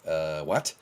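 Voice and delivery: playing his friends caught off guard; confused peers.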